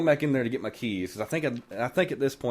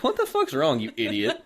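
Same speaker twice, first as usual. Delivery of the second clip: retold exasperation. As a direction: throw the question back, pitched up. Acts exasperated reply to sister.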